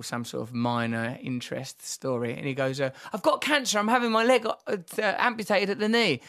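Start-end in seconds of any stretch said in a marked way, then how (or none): 3.1-6.2 higher voiced friend on crutches; light imitation of Pete breaking big news; quoting Pete. Friend quoting Pete's cancer news, voice lifted high.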